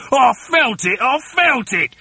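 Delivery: agitated husband's cry; Mister Twit shouting. A narrator's reading. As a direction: exclaim it insistently, voice pushed up. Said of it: "shouted Mister Twit".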